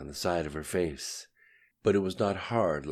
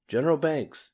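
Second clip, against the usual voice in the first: loud call, higher, across the office; yelled name; 10 semitones higher, 5 dB louder than usual. A narrator's reading. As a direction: shout the name toward the cubicles. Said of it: "yelled Mister Larson".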